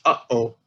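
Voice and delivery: "uh-oh" with a clear catch between uh and oh; glottal stop demo. Shown as a demonstration. Lecturer illustrating a glottal stop with a familiar phrase, carefully said. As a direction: show the gap in "uh-oh". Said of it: "what you don't hear when you say the phrase".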